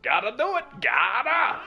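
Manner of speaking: high, loud put-on host voice; show host voice. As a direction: play a cheesy TV host.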